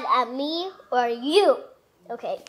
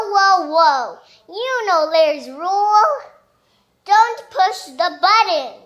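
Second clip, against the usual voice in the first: mock warning; 3 semitones higher, 6 dB louder than usual. Parent voicing Larry warning.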